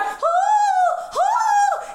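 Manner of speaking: long, high held scream; panicked scream. Retold or imitated. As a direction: scream out in terror. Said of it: "And I was still like".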